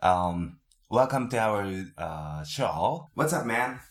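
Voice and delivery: hammy broken English small talk; fake English. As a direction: play a phony English-conversation teacher. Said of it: "エセ英語をちょっと喋り始めた".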